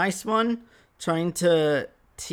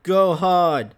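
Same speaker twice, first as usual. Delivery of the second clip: demon's yell; 7 dB louder than usual. Retold or imitated. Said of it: "He's like".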